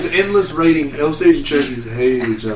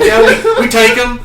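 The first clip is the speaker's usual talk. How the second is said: mock Portuguese accent; 8 semitones higher, 7 dB louder than usual. Portuguese guy quoted again.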